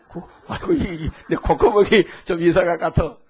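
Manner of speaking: lightly voiced grandmother, half laughing; doting grandmother. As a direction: play a puzzled grandmother making excuses. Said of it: "할머니, 냄새 안 나요?". (살짝 흉내 낸 할머니 목소리, 웃음 섞어)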